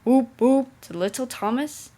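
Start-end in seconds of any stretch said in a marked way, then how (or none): 0.1-0.7 loud whooping whistle; engine whistle call. A narrator's reading. Gordon greets little Thomas in passing, loud whoop. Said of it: "never forgets to say".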